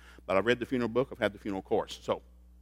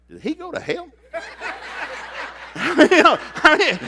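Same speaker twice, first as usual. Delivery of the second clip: laughing; 14 semitones higher, 8 dB louder, slower than usual. Retold or imitated. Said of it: "it was messing with me".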